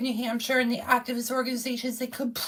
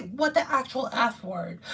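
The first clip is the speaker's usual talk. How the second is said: sarcastic censored version; 2 semitones lower than usual. Shown as a demonstration. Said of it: "I'm supposed to say".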